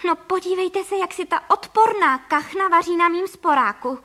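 furious housewife shrieking at the window; outraged cry. Acted. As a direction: shout in disgust at the duck. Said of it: "vykřikla paní Frejková".

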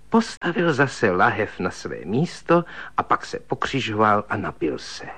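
plain reading voice

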